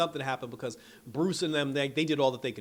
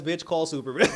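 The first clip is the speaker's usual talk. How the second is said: laughing mock demand; 3 semitones higher, 7 dB louder than usual. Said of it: "He turns to Lois and says".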